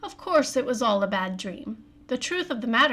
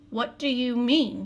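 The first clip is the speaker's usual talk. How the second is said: unsteady. Acted. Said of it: "in an unsteady voice".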